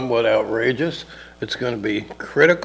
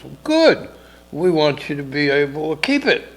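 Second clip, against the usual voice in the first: mayor voice; 3 semitones higher than usual. Retold or imitated. Mayor voiced in retold story.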